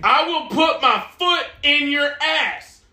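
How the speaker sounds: lightly acted dad threat, drawn out; slow, spaced-out threat with weight on each word; Fred Foreman. Guest quoting a sitcom dad's line, slow threat. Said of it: "built like Fred Foreman".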